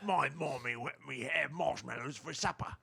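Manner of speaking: put-on slow, eerie child ghost; a lightly voiced creepy child; ghoul child voice. Dad plays a creepy ghost child, slowly. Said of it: "what do you think of that voice".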